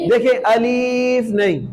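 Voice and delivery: अलीफ with the first vowel stretched long; wrong long alif. Shown as a demonstration. Teacher showing the student's wrong long अलीफ. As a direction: drag out the ii in अलीफ as the mistake. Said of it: "अलिफ को लंबा बिल्कुल नहीं करेंगे".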